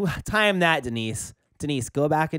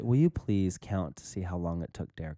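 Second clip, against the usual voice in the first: nice voice; 8 semitones lower, 4 dB quieter than usual. Acted. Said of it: "That's much better".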